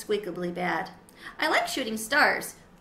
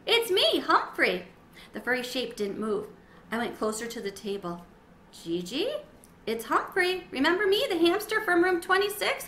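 high hamster voice; 6 semitones higher than usual. Acted. Hamster calls to Gigi.

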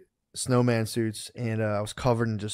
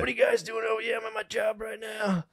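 higher, playful fake-modest worker voice; mock humble worker; 8 semitones higher than usual. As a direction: play up the humble working guy. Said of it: "being like".

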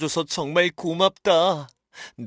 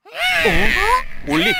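surprised; 7 dB louder, much slower than usual. Acted. Sudden sight of villain.

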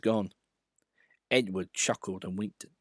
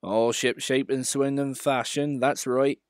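modest; 3 semitones higher than usual. Acted. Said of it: "said Duck modestly".

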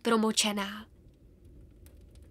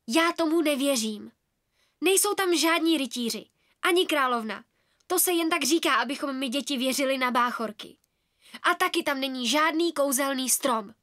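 put-on defiant girl. Girl arguing with other children.

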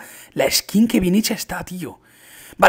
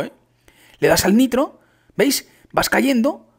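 normal talking voice

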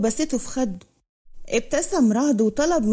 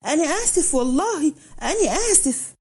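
higher, pleading apology, only half yelled; mock screaming plea; 3 semitones higher than usual. The young man begs Raad for mercy, a mild raised plea. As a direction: beg for mercy in a raised, strained voice. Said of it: "فضل الشاب يصرخ ويقول".

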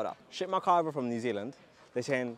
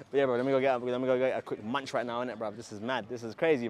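ordinary delivery

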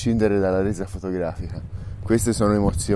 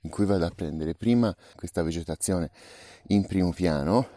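quiet; 3 semitones lower, 5 dB quieter than usual. Real, not acted. Quiet explanation at the shot.

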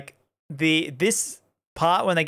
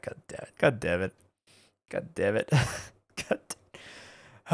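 low, soft cursing under the breath; muted frustration; 7 semitones lower, 8 dB quieter, faster than usual. Real, not acted. Streamer finds the watch-along would break copyright, muted frustration. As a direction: curse quietly to yourself, deflated.

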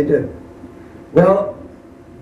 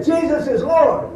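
Jesus is Lord drawn out slow and raised; 1 slower, louder repeat; 10 semitones higher, 4 dB louder, slower than usual. Retold or imitated. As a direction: say it again up and slow for a deaf ear. Repeats louder since he can't hear.

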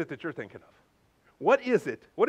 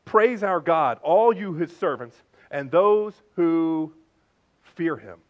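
loud, slow, weighty proclamation; loud voice from the throne; 5 dB louder, much slower than usual. Acted. John reporting the voice from heaven's throne, loud proclamation. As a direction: proclaim it in a big voice, drawing out the words. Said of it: "a loud voice coming from the throne".

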